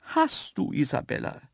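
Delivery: very high dainty antelope, agreeing; Graziella. A narrator's reading. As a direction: side huffily with your companion in a high voice. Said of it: "gab ihr die andere recht". (zustimmende, hohe Antilopenstimme)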